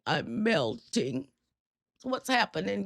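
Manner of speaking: lightly imitated weepy Grinch, slow at first; mock crying Grinch. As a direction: play at a tearful, melting breakdown. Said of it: "he just starts crying".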